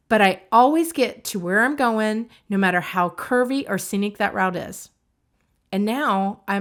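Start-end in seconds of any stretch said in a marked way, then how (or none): 0.1-4.9 punched-up "always", then settle through "route is"; emphatic turnaround. Shown as a demonstration. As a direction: push "always" louder, as the decisive word. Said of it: "my emphasis is on".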